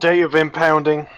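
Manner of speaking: Cockney car guard asking for details; lightly Cockney official; attempted Cockney. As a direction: put on an amateur Cockney accent. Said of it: "I can't do a very good Cockney accent".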